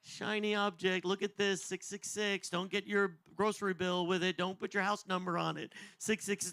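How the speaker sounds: a hint of a taunting Satan; mock Satan tempter. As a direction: dangle it like bait. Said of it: "Satan's kinda going".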